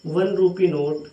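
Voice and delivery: words spaced out slowly; slow dictation. Shown as a demonstration. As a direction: read it slowly for the students to write. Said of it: "और बोल दूँ मैं".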